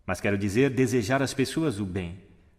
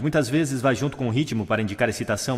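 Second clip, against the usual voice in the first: ordinary talk, nothing marked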